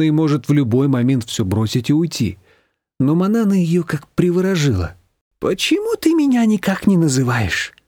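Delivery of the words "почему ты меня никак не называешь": mournful. A narrator's reading. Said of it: "скорбно спросила свекровь".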